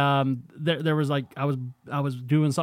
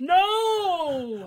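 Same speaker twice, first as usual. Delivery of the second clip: shocked; 14 semitones higher than usual. Acted. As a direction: gasp it out in disbelief. Mock shock at news.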